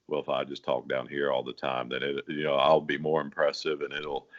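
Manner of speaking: imitating a young singer forcing a low voice; mock low talk. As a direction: drop the voice low to sound impressive. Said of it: "they're probably thinking".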